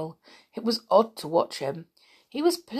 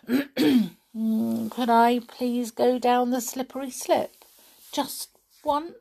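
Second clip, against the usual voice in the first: higher, timid little rabbit asking; shy rabbit; 6 semitones higher than usual. Acted. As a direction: ask sheepishly in a small high voice. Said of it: "said the rabbit shyly".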